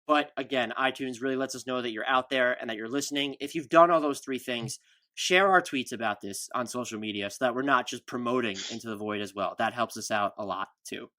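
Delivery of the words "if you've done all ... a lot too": winded after a long read; running out of air; out of breath. Real, not acted. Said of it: "Whew, I'm a little bit out of breath".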